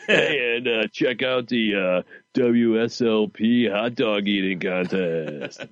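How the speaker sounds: shock jock radio host. Acted.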